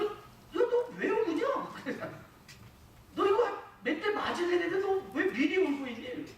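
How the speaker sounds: high, laughing mock scold; mock scolding parent. Parent scolding a child who cries before being punished, laughing mock scold. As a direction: tease the child for crying too early.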